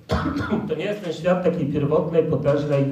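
sick, with a cough; talking while sick and coughing. Real, not acted. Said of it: "jestem trochę chory, kaszel bierze".

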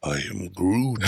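slow, deliberate tree creature line; mock Groot line. Co-host quoting the favorite character, slow mock creature voice.

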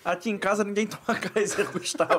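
stifled giggles. Real, not acted. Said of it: "Eu tava tentando manter a seriedade".

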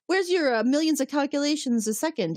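high-pitched mock grilling; exasperated challenge. Host voices Riker grilling Data for answers, exasperated. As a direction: pitch it up as a retold, exasperated demand.

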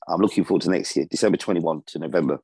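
choppy connection cutting out; glitching audio. Real, not acted. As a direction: audio keeps dropping out. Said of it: "you keep cutting out".

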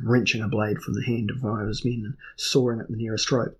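ordinary delivery

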